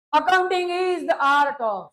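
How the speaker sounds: very slow, word by word reading; slow dictation. Shown as a demonstration. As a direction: read it out slowly for notes. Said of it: "dictating definition". (धीमे धीमे लिखवाना)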